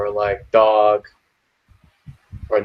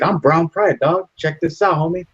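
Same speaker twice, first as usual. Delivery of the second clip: higher cholo voice, proud; cholo bragging; 6 semitones higher than usual. Retold or imitated. Cholo flashing his pride tattoo at the dad, higher voice. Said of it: "He's like".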